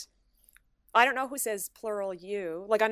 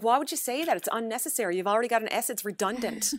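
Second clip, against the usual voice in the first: mock exasperated; 3 semitones higher, 5 dB louder than usual. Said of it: "I'm like".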